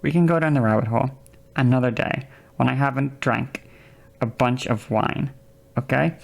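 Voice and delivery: calm yourself down after a heavy sigh; reined-in patience. Real, not acted. Streamer putting off the argument with a chatter, reined in. Reins self in after sighing.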